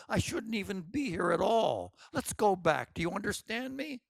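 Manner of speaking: high, anxious begging; panicked pleading. Acted. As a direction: plead desperately to turn back. Moon Orchid begs to turn back.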